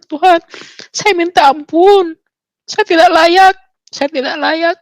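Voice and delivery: mock-tearful begging for mercy; retold tearful plea. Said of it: "Terus saya nangis".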